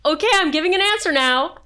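loud put-on voice. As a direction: blurt out a decision under pressure. Imagining director forced to decide.

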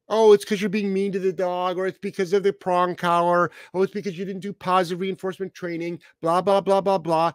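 dismissive parody of critics; mocking critics. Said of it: "mimicking critics' excuses".

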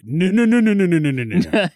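mock adamant denial; imitating a friend's firm refusal; emphatic refusal. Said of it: "you were like".

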